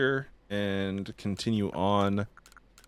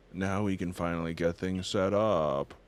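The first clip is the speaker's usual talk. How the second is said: deadpan. Acted. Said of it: "See the excitement in my voice?".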